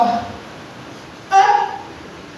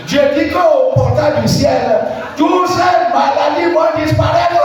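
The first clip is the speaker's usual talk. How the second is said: preaching shout; 4 semitones higher than usual. Acted.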